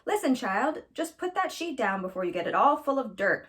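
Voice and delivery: a lightly voiced grandmother, fussing a little; mild scolding, like a granny shooing a child off; a hint of a fussy old grandmother. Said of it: "fussed Leola's grandmother".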